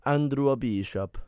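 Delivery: slow, put-on Italian accent. Shown as a demonstration. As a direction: drag it out in a mock Italian accent. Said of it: "I did it Italian that way".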